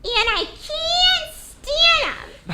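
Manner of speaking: slow, stiff try at rounded vowels; attempted round tones. Shown as a demonstration. The speaker repeating the coach's line, slow and stiffly rounded. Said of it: "And remember, round tones".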